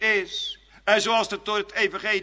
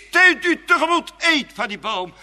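tempting serpent; 7 semitones higher, 8 dB louder than usual. Acted. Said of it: "Hij sist".

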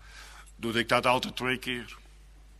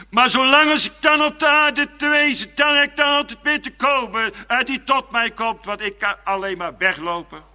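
raised, loud preaching voice; fervent preaching; 11 semitones higher, 8 dB louder than usual. Real, not acted. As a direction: preach it out with full conviction. Preek climax. (vurig, luid gepredikt)

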